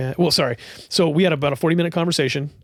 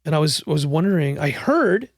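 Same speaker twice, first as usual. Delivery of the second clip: a hint of a bold, larger-than-life landlady; Judy's voice; 2 semitones higher than usual. Landlady introducing herself to the owner, lightly voiced. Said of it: "And she was like".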